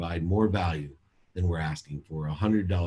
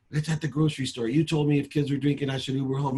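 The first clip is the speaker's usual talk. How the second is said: put-on much higher girlish daughter voice; imitating teen daughter; 8 semitones higher than usual. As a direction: play the teen explaining herself. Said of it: "she'd say".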